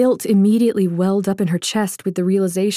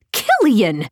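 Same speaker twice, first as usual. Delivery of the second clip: calling his name after him; 3 semitones higher than usual. Acted. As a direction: call Killian's name, a little raised.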